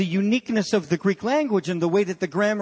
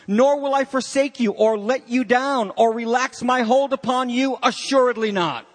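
each "nor" phrase set apart and driven home; emphatic piled-up negatives. Acted. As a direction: stack the negatives with steady insistence. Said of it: "they're trying to bring out the power of how all of these negatives are piled up".

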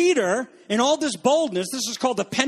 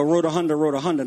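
mock gibberish tongues; 4 semitones lower, much faster than usual. Shown as a demonstration. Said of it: "not that kind of stuff".

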